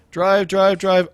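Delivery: egging the driver on; urging on. Acted. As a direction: drive it on like a fan yelling. Urging the car in the game.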